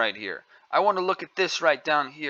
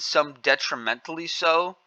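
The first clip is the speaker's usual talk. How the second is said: "some detrimentally so" with a scornful rise on "so"; sneering echo of "detrimentally"; parroting the phrase with contempt; mocking quote. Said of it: "that's not the way that a young girl talks".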